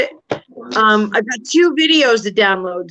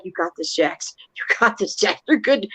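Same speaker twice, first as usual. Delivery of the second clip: softer, calming encouragement; reassuring; 5 dB quieter than usual. Retold or imitated. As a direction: talk a nervous friend through it gently. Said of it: "He's all reassuring me".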